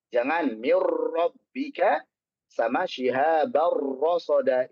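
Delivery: "mir rabbika" with a heavy rolled r, slow; overtrilled r. Shown as a demonstration. Teacher showing the wrong harsh reading. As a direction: press the r hard in "shihabar". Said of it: "Ini contoh yang salah".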